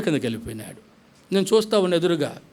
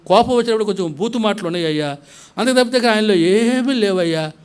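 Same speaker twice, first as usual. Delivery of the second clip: wailing plea; 4 semitones higher than usual. Retold or imitated. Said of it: "లబో దిబో కొట్టుకుంటా ఉంది".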